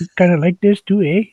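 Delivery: put-on Canadian accent with a rising "eh?"; teasing Canadian "eh". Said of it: "the Canadian accent".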